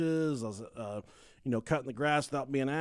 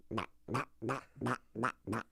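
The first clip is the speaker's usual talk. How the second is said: duck noises; 5 semitones lower, 9 dB quieter than usual. Retold or imitated. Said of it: "walking like a chicken or a, uh, a duck".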